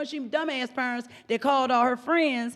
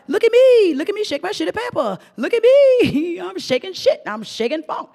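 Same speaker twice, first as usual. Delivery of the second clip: put-on higher, playful little-girl chant; sing-song it like a proud toddler; 6 semitones higher, 4 dB louder than usual. Voicing the twerking toddler in a playful sing-song.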